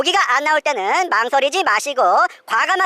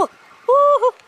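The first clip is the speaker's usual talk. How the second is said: excited; 13 semitones higher, 3 dB louder, much slower than usual. Real, not acted. Fish coming up.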